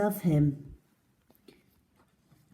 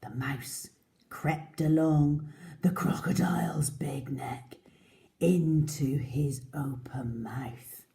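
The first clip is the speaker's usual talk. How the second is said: hushed story narration; 2 semitones lower than usual. A narrator's reading. Suspense narration to children.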